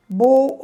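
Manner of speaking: loud high syllable Bu; syllable stressed. Shown as a demonstration. Teacher splitting ambulância, loud. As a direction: hit Bu hard as a separate syllable. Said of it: "outra sílaba".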